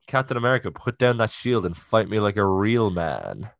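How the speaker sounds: put-on Russian-sounding accent for a French villain; bad French accent. Host as Batroc challenging Captain America, bad French accent. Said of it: "Russian accent for a French villain".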